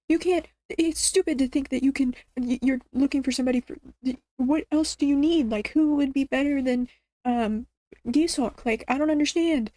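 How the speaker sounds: lightly acted, incredulous protest; mild mock tantrum. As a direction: imitate an exasperated dad throwing a fit. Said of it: "threw an absolute fit like a child".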